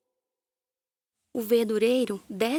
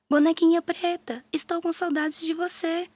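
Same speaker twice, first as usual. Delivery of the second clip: higher, louder call to the doll; 7 semitones higher, 3 dB louder than usual. A narrator's reading. Mariazinha searching the house, calling louder for her doll. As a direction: shout even harder for her lost doll. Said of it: "grita mais alto".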